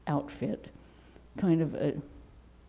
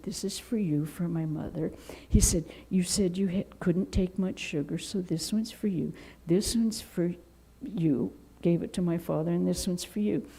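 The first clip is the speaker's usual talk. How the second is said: sweetly; 5 dB quieter than usual. Retold or imitated. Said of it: "And very sweetly".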